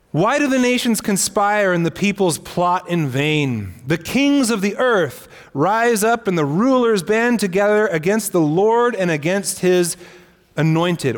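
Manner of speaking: measured, emphatic Bible reading; scripture reading. Acted. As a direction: read the psalm out to the congregation. Reads Psalm two aloud.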